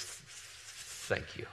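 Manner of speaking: imitating a furious man's forced, whispered thanks; seething thanks. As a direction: squeeze out a barely audible thank-you. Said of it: "He was so mad".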